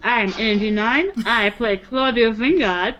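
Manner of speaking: mouth full. Real, not acted. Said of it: "with your mouth full".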